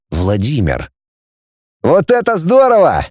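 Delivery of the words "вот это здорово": high, thrilled exclamation; exclaiming. A narrator's reading. Vladimir discovers his compartment bunk, exclaiming in delight. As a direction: burst out in pitched-up delight. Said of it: "воскликнул он".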